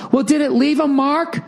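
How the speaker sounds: high, heated back and forth; heated exchange. Retold or imitated. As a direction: argue it out, voice climbing. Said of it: "She just goes".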